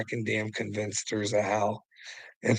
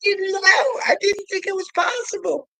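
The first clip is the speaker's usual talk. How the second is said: high, shrieking mock disbelief, much higher and louder; imagined opponent's stunned outcry, shouted falsetto; mock shocked shout; 4 dB louder than usual. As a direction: shriek it like the penny just dropped for him. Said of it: "you'll be like".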